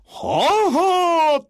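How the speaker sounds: calm reply. A narrator's reading. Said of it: "平常と何の変わりもございません".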